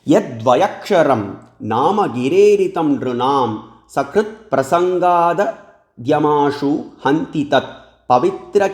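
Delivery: slow, measured chant of a Sanskrit verse; slow sacred recitation. Acted. Teacher reciting the Bhagavatam verse to listeners, slow chant. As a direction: intone each syllable slowly like scripture.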